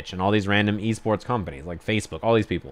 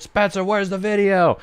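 high, strained mock yell; 9 semitones higher than usual. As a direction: yell it as if across a production room. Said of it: "He's, like, yelling at him".

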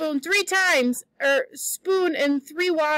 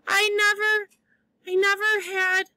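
mournful; 4 semitones higher than usual. Acted. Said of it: "she mourned".

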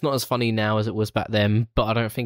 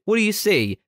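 high-pitched demand; 11 semitones higher than usual. Retold or imitated. Acting out film scene.

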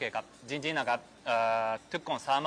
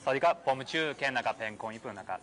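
Japanese-accented Thai. Real, not acted. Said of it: "เดี๋ยวพยายามพูดภาษาไทยนะครับ".

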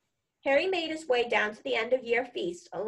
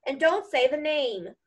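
higher tearful plea, lightly acted; sobbing, understated; 5 semitones higher than usual. A narrator's reading. Gamekeeper begging the boy not to name the enemy, mildly tearful. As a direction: plead with a touch of a sob. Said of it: "sobbed Hagrid".

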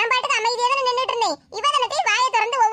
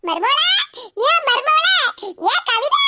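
calling out; 2 semitones higher, 3 dB louder, slower than usual. Acted. Calling daughter-in-law anxiously.

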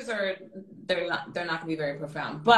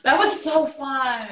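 laughing; 6 semitones higher, 6 dB louder, slower than usual. Real, not acted. Laughing, loud and slow.

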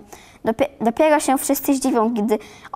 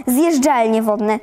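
ordinary delivery

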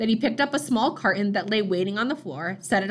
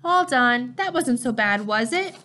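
cheerful; 2 semitones higher, slower than usual. Acted. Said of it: "Jonas heard his father say cheerfully".

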